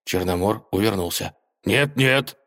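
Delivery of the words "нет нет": higher-pitched mild panic; understated frightened protest; panicked cry. Acted. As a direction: refuse with a touch of alarm. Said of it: "в панике кричал он".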